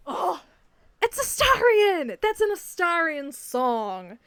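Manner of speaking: the big aha, drawn out; excited realization. Real, not acted. The realisation about Astarion.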